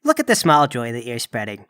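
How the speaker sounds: looming Krampus. Acted. Krampus looms over the dying man, deep and ominous. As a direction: loom over them in a low voice. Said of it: "The Krampus looms over you and says".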